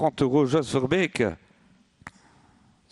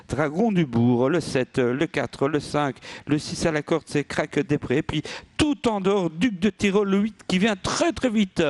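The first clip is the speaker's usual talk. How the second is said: building higher as the horse surges; excited race caller; 4 semitones higher than usual. Real, not acted. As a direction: race call rising with excitement. Live race commentary, rising.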